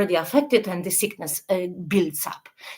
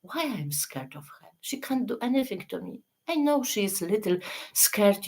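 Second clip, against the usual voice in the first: calm logical self-talk; 5 dB quieter than usual. Shown as a demonstration. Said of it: "so you talk how?".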